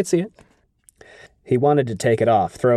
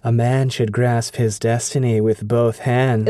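slow, sultry temptress voice; Lanfear voice. Acted. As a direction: purr it slowly like a femme fatale. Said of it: "your Lanfear voice".

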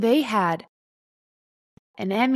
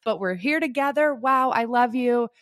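raised, gushing sign-off to the room; mock Emmy acceptance speech; 3 semitones higher than usual. Winner apologizing to the celebrity crowd, gushing and lightly raised. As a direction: wrap it up with cheeky apologies and love. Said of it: "you are going to do your Emmy speech".

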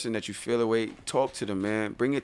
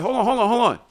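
high, loud call to wait; calling out to a neighbour carrying doors; excited stop; 11 semitones higher, 7 dB louder, faster than usual. Retold or imitated. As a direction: call out to stop him, eager. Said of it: "I said".

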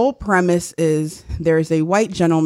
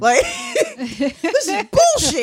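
high, slow, whiny entitled bro; hammed-up offended bro; Chad voice; 11 semitones higher, slower than usual. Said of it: "you really sounded like a Chad".

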